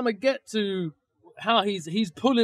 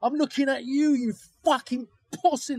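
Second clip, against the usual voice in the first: higher, heated retold rant; shouting down the guy who jumped out; 8 semitones higher than usual. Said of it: "shouting like".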